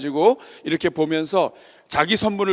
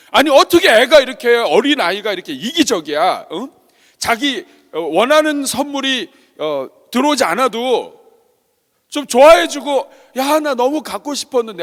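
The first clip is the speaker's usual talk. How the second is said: acted parental grumbling, pitched up; indignant parent; 4 semitones higher than usual. Father fuming to himself while driving home, indignant. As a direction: complain in exasperation about an ungrateful child. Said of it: "운전하고 오면서 막 그랬습니다".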